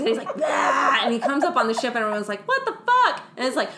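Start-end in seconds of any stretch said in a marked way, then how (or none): 0.4-1.0 mock zombie bah. Zombie growl. 2.5-3.2 high, shocked mock outcry; shocked crew. Crew seeing zombie Fifield on the ship, high shocked outcry.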